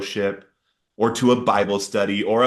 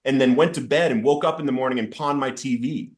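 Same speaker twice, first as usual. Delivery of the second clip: retold yelling; 6 semitones higher than usual. Man crying and yelling at God, retold angry. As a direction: relive the anger without full force. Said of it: "I'm crying and I'm yelling at him".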